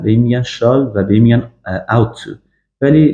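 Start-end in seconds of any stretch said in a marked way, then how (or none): 0.4-0.6 "shall" in a British accent, with a darker back vowel; British-accented "shall", vowel further back; British pronunciation. Shown as a demonstration. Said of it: "لهجهٔ انگلیسی یا بریتیش". 1.9-2.3 "ought to" as a learner's British accent demo; British-style "ought to", demonstrated for students; British pronunciation. Shown as a demonstration. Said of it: "لهجهٔ انگلیسی یا بریتیش".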